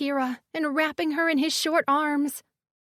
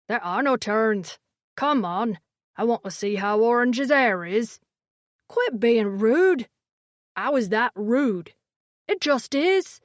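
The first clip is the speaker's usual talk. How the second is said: squabbling creature voice; 3 semitones lower than usual. A narrator's reading. Hillbobs squabbling.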